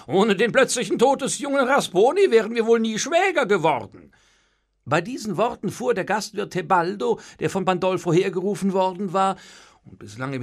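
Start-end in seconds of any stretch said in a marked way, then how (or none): 0.1-4.1 cheerful, high and loud; hearty, lifted delivery in good spirits; good-humoured. A narrator's reading. Father to his future in-law, good-humoured. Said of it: "sagte Pandolfo gut gelaunt".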